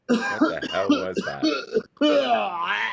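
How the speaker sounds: slow, high, loud disbelief; incredulous. Real, not acted. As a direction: drag it out in utter disbelief. Baffled by Bobby's rant.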